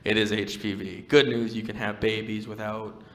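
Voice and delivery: softly understated reassurance; lightly voiced calm nurse; sweet nurse. Nurse gently giving the patient the news, mild sweetness. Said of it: "The nurse was very sweet".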